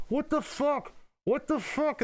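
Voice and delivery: high, baffled swearing, over and over; exasperated cursing. Retold or imitated. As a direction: throw up your hands in disbelief. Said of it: "I'm on in the background".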